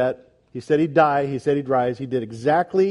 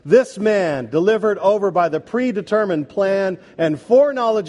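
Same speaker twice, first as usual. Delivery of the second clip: forceful, declaimed sermon voice; preacher's scripture reading; 2 semitones higher, 3 dB louder than usual. Real, not acted. Leads congregation reading, then proclaims.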